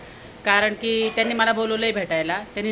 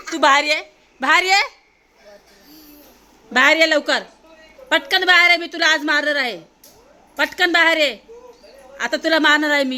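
playful louder threat with a laugh; mock threat; 4 semitones higher, 4 dB louder than usual. Mother teasing threat to come out, mock angry and louder. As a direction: pretend to be cross, half laughing.

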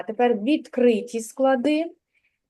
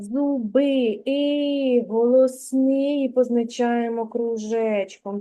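slow teacher model; slower than usual. Shown as a demonstration. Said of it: "teacher repeats slowly".

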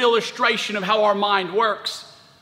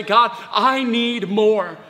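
higher, insistent repeated plea; crying out to God; 3 semitones higher, slower than usual. Acted. Preacher modelling a prayer to God, crying out. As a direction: build the plea, then draw out the last one. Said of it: "cry out to God and say".

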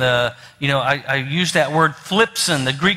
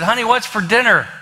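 raised pitch, calling to someone across the room; lightly acted call to a wife; 5 semitones higher than usual. Husband testing wife's hearing from behind, calling out.

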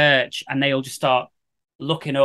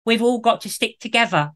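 imitating a stagey London accent, pitched up; mock a Liverpool girl faking London; bad London accent; 6 semitones higher than usual. Mocking actress's bad London accent. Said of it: "does the worst London accent I've ever heard".

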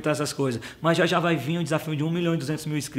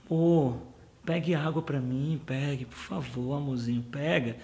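soft, slow, lower sweet-talking wife; coaxing wife; 3 semitones lower, 7 dB quieter, slower than usual. Retold or imitated. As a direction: coax him sweetly, almost cooing. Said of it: "toda dengosa, toda manhosa".

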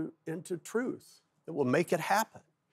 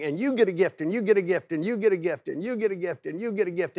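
imagined God as giveaway host, raised singsong repeats; God handing out gifts; 4 semitones higher, faster than usual. Pretend. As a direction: hand out each one in the same high, rolling cadence. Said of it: "I just imagine God looking at every one of us and saying".

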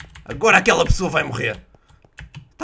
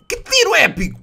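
high, loud cheer; excited high-pitched outburst; mock-epic exclamation; 11 semitones higher, 6 dB louder than usual. Real, not acted. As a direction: proclaim it like a big highlight. Exclaims over his shot.

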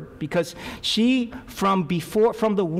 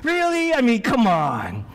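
incredulous squeak, much higher; mock disbelief, high-pitched; doubting husband; 8 semitones higher than usual. How Manoah does not react, mocked as squeaky disbelief. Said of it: "He doesn't go".

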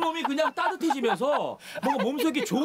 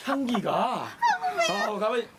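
ordinary delivery

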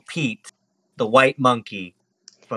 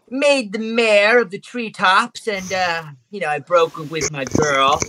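lightly voiced little monkey; a hint of a cocky small-creature voice; boastful flirty monkey; 5 semitones higher than usual. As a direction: casually brag to impress your crush.

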